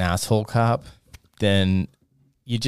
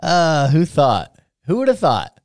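surprised; 8 semitones higher, 5 dB louder, slower than usual. Real, not acted. Reacts to the poem.

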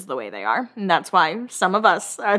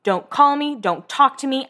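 put-on higher, hurt anger toward her boyfriend; mock angry Heidi; 5 semitones higher than usual. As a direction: tell him off like a betrayed girlfriend. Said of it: "she goes".

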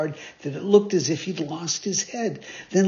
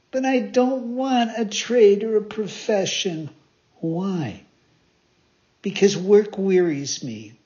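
put-on higher, complaining boy; sulky puppet; 4 semitones higher, 3 dB louder than usual. Pinocchio refusing a trade, higher and sulky. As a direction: grumble stubbornly.

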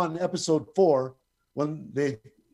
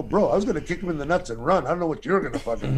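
laughing; faster than usual. Real, not acted. Laughs through his fast answer.

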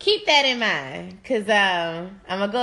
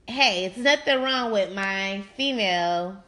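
whispered quote of a man, slowing at the end; half-whispered man's quote, drawn out with a laugh; quoting men; slower than usual. Retold or imitated. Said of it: "Some men will say".

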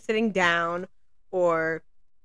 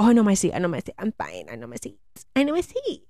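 mocking passenger; faster than usual. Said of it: "they swear up and down".

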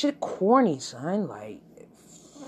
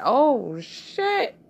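shocked reaction; 7 semitones higher, 5 dB louder than usual. Retold or imitated. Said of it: "I was like".

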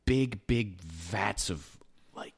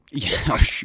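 whispering; 6 semitones higher, 7 dB louder than usual. Shown as a demonstration. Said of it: "we are doing A S M R".

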